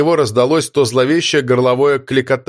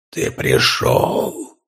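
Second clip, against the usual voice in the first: much lower, very slow scraping whisper; grating mimic voice; 12 semitones lower, 4 dB quieter, much slower than usual. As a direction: scrape the words out like a monster mimicking. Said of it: "проскрежетал голос за его спиной". (скрежещущий голос чудовища)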